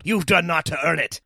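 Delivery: loud, indignant rebuke; angry snarl. A narrator's reading. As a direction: snarl the accusation. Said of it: "Symmachus snarled".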